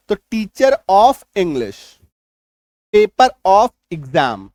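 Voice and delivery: teacher of English and paper of exam, very slow with linked r; slow linking r. Shown as a demonstration. Teacher models linked r slowly for students. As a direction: drag each phrase, r running into the vowel. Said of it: "देखिए teacher of English में क्या होता है".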